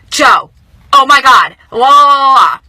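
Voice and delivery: loud, giddy, sing-song cry; telling friend Joe the big news in a gleeful shout; excited shout. Retold or imitated. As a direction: call out the news with joy.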